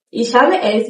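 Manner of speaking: Ich habe es with habe and es clear; careful Ich habe es; full form. Shown as a demonstration. Teacher gives the textbook form.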